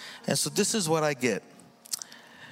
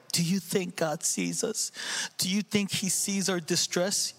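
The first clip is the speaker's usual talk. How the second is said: mock doubting question; 7 semitones higher than usual. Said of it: "They weren't like".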